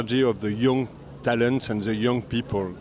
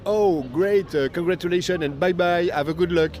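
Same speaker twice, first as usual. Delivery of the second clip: higher, quickened cheery send-off; mock congratulations; 5 semitones higher than usual. Festival director imitating a quick brush-off to young winners, mock-cheery. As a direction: toss out a breezy, hollow well-done and goodbye.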